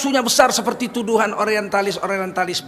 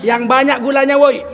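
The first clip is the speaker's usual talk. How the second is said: yelling to kitchen; 3 semitones higher than usual. Retold or imitated. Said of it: "dia menjerit ke dapur".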